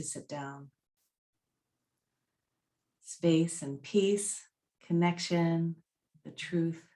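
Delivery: guided reflection. Real, not acted. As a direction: offer each phrase calmly, leaving long pauses. Guides reflection, reads answers slowly.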